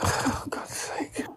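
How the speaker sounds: sighing whisper. Real, not acted. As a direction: breathe it out, exasperated. Exasperated aside under breath.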